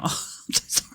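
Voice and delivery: sorry said mid-laugh, barely voiced; laughing apology. Real, not acted. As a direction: giggle out an embarrassed sorry. Laughing apology after a rant.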